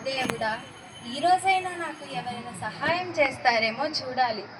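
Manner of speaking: a lightly voiced poor woman sighing over her hard life; tired and resigned, talking to herself at dawn; weary poor woman. Poor woman's weary morning monologue. (అలసిన పేద స్త్రీ, నిట్టూర్పుతో)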